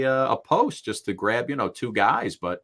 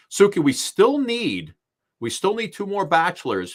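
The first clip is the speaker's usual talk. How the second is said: calling out to Suki; 5 semitones higher than usual. Real, not acted. Calling out to co-host on air.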